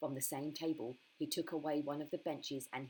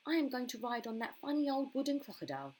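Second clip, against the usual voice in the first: put-on little girl voice; 8 semitones higher, 4 dB louder than usual. A narrator's reading.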